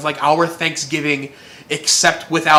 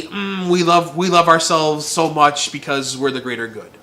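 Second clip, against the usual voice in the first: lovey-dovey. Retold or imitated. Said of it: "lovey-dovey".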